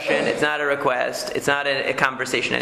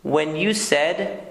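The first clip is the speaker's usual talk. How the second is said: gentle I-statement. Shown as a demonstration. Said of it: "if I said to you".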